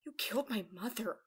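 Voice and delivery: halting, understated accusation; low voice. A narrator's reading. Aurora to her mother's killer, low and halting. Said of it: "voice low and eyes closed".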